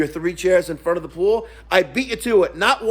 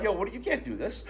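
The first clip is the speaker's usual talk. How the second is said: laughing; 10 dB quieter than usual. Retold or imitated. Security laughing at the man.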